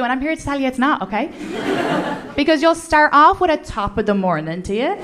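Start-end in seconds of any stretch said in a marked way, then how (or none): 3.6-5.0 hammed-up stage-Irish lilt; mock Irish accent. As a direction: imitate an American faking an Irish accent. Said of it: "people will do my accent to my face".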